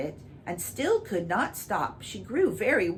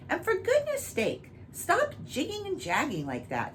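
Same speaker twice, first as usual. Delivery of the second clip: higher, hurried irritable king; 3 semitones higher than usual. Acted. Impatient king scolding the dancing cow, irritably higher. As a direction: snap at the cow, higher and quick. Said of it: "he added irritably".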